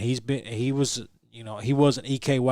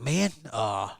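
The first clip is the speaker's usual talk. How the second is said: confused commentator; 3 semitones higher than usual. Retold or imitated. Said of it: "He's like".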